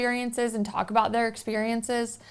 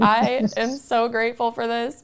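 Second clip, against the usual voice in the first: overwhelmed gush; 3 semitones higher, 5 dB louder than usual. Retold or imitated. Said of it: "I was like".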